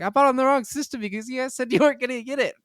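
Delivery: high, strained mock whine of frustration; exasperated high-pitched complaint. Retelling to a friend why he bought the wrong console, high mock whine. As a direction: whine it like you got cheated. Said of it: "And I'm like".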